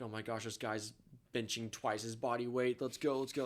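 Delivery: lightly hammed-up cheering on a lifter; mock hyped-up. Guys at the squat rack filming a max lift, mildly hyped imitation. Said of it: "freaking out".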